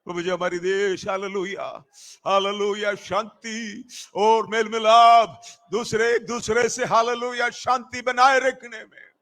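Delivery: preacher's insistent prayer cadence; fervent public prayer. Real, not acted. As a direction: plead phrase by phrase, leaning on key words. Leads prayer for peace.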